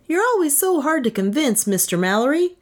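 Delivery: high-pitched, wounded protest; complaining. A narrator's reading. Inventor faults the official for doubting him, complaining. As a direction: complain in a high, put-upon voice. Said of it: "he complained".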